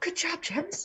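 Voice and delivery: soft, quiet whispered aside. Whispering praise in character to another player after an explosion: whispering. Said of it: "I'll whisper".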